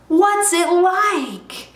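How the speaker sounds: high, drawn-out wondering question; excited cry. Acted. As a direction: ask it slowly, agog with curiosity. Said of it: "they cried".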